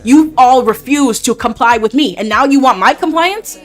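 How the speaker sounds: angry father. Acted. Father retells, builds to anger.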